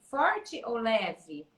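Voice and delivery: slow, weighing each word: Forte ou leve; slow, teacherly Forte ou leve; drawn-out question. Shown as a demonstration. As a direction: let the choice hang, slowly. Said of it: "Como que eu vou pegar o garfo pra comer?".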